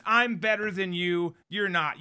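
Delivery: slow dragging creaky mock; vocal fry. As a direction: stretch the words in a fry. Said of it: "You kinda drag on these words".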